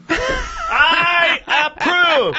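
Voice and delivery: slow, high shouted I approve; drawn-out high shout. Pretend.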